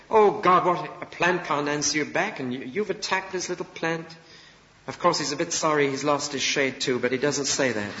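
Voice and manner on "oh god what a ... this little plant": indignant outburst. Acted. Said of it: "And he's angry for the plant's sake".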